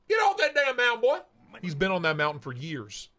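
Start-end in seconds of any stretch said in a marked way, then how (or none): 0.1-1.2 mock holler. Streamer jokingly orders Doggone Mountain off, mock holler. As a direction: holler it like chasing someone away.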